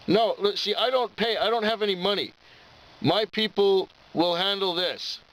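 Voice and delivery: high, insistent mock drunk voice; imitating drunk customer. Drunk customer telling the storekeeper he never pays, high mock insistence. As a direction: pitch it up and insist like a tipsy old man.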